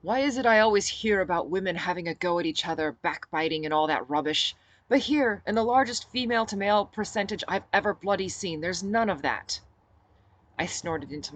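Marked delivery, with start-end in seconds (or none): 0.0-9.6 lightly voiced British bloke, louder and cheeky; a hint of a chatty Englishman putting his foot in it; British man. Griffin voiced, British slang.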